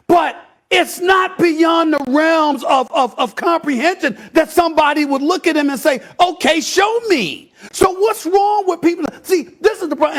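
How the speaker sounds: heated pundit debate. Real, not acted. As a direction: hammer the point home. Arguing his point heatedly.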